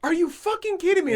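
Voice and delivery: high-pitched mock outrage; indignant older man. Older man turning round on a second smoker, outraged. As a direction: imitate a snob at the end of his patience. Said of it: "kinda snooty white guy in a polo".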